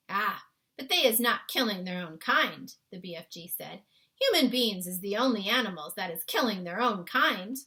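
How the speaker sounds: put-on a kindly giant explaining his world to a girl; BFG voice. A narrator's reading. BFG's lines in story.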